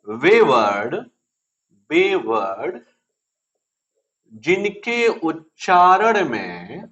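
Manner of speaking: drawn-out words with long pauses for note-taking; slow dictation. Real, not acted. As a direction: dictate slowly, word group by word group. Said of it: "तो लिख लो". (धीरे-धीरे, रुक-रुककर लिखवाते हुए)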